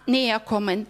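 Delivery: ordinary delivery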